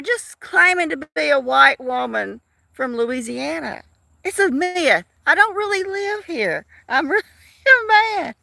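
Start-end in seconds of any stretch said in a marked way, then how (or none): 4.2-8.3 high-pitched, giggly kidding; joking confession cracking up; laughing mock confession. Real, not acted. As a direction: tease in a raised voice, breaking into a laugh. Joking she is secretly a man.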